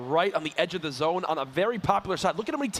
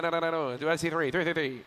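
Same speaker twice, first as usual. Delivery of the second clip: auctioneer. Pretend. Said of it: "I'm gonna sound like an auctioneer".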